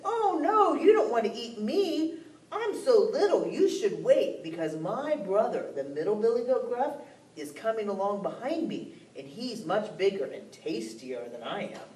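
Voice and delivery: put-on high, pleading kid goat; mildly pleading little goat. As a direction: beg the troll to wait. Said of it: "He said".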